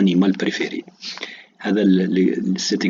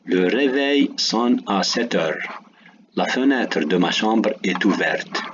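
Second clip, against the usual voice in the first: slow dictation. Shown as a demonstration. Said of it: "je donne des exemples".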